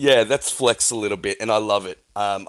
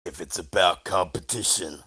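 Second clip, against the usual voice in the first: measured start swelling into a rallying challenge; battle cry; 2 semitones higher than usual. Retold or imitated. Co-host quoting the executive's comment as a battle cry. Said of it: "said it sounded like a battle cry".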